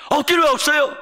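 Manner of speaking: wife shouting down her husband's despair, high and loud; wife scolding. Retold or imitated. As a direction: push him hard, no excuses.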